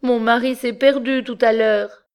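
high, weepy confession; tearful stammer. A narrator's reading. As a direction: blurt it out close to tears. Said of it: "Elle balbutia les yeux pleins de larmes".

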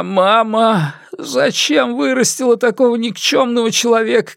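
put-on keen to the heavens like a grieving old woman; wailing like an old woman. Jintun in the reeds wailing to his mother, high old-woman lament. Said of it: "причитая по-старушечьи".

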